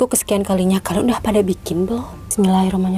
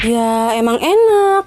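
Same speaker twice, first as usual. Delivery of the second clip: slow, drawn-out "enak" with emphasis; stress on enak; much slower than usual. Real, not acted. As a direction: lean hard on "enak". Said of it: "katanya aku apa aja enak". (tekankan kata "enak")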